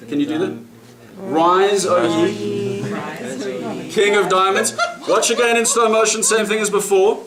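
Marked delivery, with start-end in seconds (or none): 1.2-4.7 playful mock old English summons, a little laughing; old English accent. Magician calling the card up in mock old English. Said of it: "in that old English accent".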